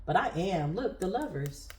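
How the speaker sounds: choked up but keeping it steady; holding back tears. Real, not acted. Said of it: "I'm fighting back my tears".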